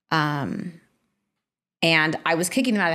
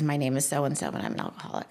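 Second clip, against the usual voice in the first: real tears breaking in; 4 semitones lower, 6 dB quieter, much faster than usual. Real, not acted. Emotional first support meeting.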